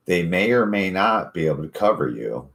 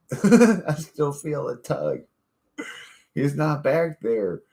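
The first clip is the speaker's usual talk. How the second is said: mock rescuer; 10 semitones higher, slower than usual. Acting out the rescuers.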